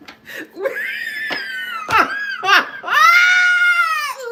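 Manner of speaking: high howling laugh, loud; loud laughing fit. Real, not acted. Reader cracks up at narcissists on the hamster wheel, loud high laughing fit. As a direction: howl with helpless laughter. Cracking up at her own joke.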